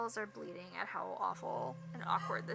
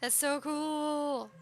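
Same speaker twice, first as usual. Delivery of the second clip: excited squeal; 4 semitones higher, 5 dB louder, much slower than usual. Acted. Gushing reaction to band news.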